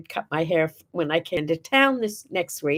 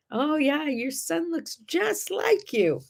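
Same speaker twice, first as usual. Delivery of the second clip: higher, slow mock Chinese accent; 7 semitones higher, slower than usual. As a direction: replay her words higher and slowly in a Chinese accent. Repeating the woman's words.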